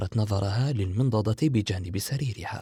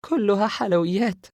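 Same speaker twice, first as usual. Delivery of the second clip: put-on higher, louder delighted girl; laughing; 11 semitones higher, 7 dB louder than usual. A narrator's reading. Sara amused at a tray of sweets, lightly laughing. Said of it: "سارة رافعة الملعقة ضاحكة".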